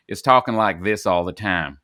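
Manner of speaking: light mock Southern accent. Host mocking British actors playing Americans, light Southern US accent. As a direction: lightly imitate a Southern drawl. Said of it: "being from the South".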